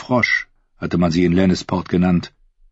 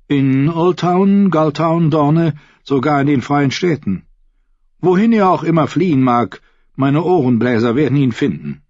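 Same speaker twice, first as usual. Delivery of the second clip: higher, measured courtier voice; smooth courtly advisor voice; 8 semitones higher, 3 dB louder than usual. A narrator's reading. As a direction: speak like a silky royal advisor. Qyburn voiced.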